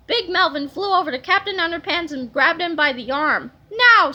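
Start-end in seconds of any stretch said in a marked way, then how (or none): 3.7-4.1 high, loud villain bark; loud command. A narrator's reading. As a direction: boom the word out. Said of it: "said Big Melvin".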